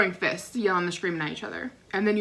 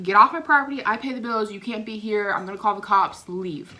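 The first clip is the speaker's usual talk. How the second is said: grandpa ordering. Retold or imitated. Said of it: "he's telling everybody to leave".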